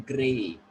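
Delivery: great, said with a clear R after the G; clearly pronounced R. Shown as a demonstration. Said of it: "having clear sound of R".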